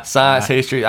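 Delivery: words blurred by a held tongue; holding tongue with fingers. Shown as a demonstration. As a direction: say it while pinching your tongue. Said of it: "when you hold your tongue and say that word".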